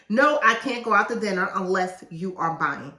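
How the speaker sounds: loud, pushy no, too much force; wrong take, forceful no. Shown as a demonstration. Author showing readers the wrong way, loud no. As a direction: bark the refusal at them. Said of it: "Don't say it like that".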